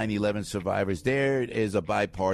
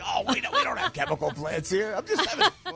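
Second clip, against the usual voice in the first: Paulie voice; 9 semitones higher than usual. Retold or imitated. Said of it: "Paulie was from Piscataway".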